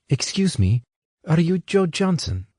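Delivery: put-on light English accent, rising question; a hint of an English woman asking. A narrator's reading. Lightly voiced English accent as Anna asks Johnson. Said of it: "she asked in a distinctly English accent".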